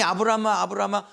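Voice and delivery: quick calls, back to back; urgent double call. Acted. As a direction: call the name twice without a pause. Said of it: "두 번 빨리 부르지".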